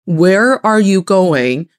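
slow, stretched out; slow drawn-out question. Shown as a demonstration. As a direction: draw the question out slowly. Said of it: "We say".

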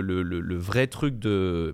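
slowing down, losing the thread; trailing off. Real, not acted. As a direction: drag out the words as the thought slips away. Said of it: "j'ai oublié ce que j'allais dire".

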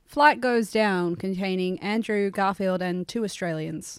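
slow, deliberate mock news reader; a lightly voiced TV headline read; Australian news reporter. Imagining the news report of their crash, as a mock Australian news reporter. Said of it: "an Australian kind of news reporter".

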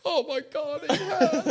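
high, laughing fussing parent; parent mode. Retold or imitated. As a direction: fuss over him like a mum, mock-panicked. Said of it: "parent mode".

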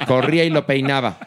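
ordinary talk

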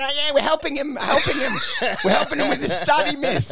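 schmooze the teacher while hiding the bullying; fake-polite bully. Imitating a bully sweet-talking the teacher. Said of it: "and they go".

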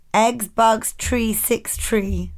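mock Nigerian accent; Nigerian accent hack. Shown as a demonstration. Host demonstrating a listener's accent hack, put-on Nigerian accent. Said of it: "For, I, for a Nigerian accent".

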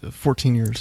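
whispered. Real, not acted. Quiet answer while counting.

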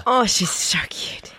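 slow, breathy gushing over a cute dog; drawn-out, whispery coo; cooing over a pet. Real, not acted. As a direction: melt with adoration, voice mostly breath.

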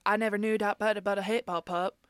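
imitating an actress's repetitive Southern cadence; mock her repeated up-and-down cadence. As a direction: say "but a hip hop pup" in a sing-song repeating pattern. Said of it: "she also had a very repeated cadence".

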